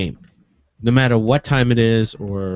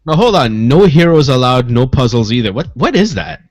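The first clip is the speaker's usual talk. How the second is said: incredulous; 8 dB louder than usual. Real, not acted. Incredulous at odd game titles.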